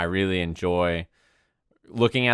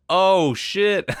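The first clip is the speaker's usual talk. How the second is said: higher mock-panicked "Oh, shit" as a fifteen-year-old; teen self alarmed; 9 semitones higher, 3 dB louder than usual. Teen self reacting to a nasty YouTube comment, higher and panicked. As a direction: play his younger self, higher and alarmed. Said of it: "And I was like".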